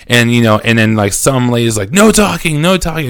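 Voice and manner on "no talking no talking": higher-pitched mock scolding; retold scream. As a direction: imitate a woman screaming orders, without full volume. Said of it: "they're just screaming at us".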